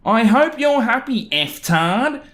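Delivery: high, slow mock angry husband; furious neighbor's note read in a high, slow mock voice; angry note-writer. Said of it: "there's a transcription underneath".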